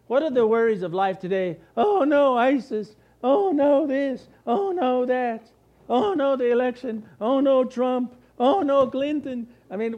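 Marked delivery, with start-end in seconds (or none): 1.8-9.5 mock-panicked, higher and louder "oh no"s. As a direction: parody a nervous crowd fretting over the news. Mocking worried people's voices.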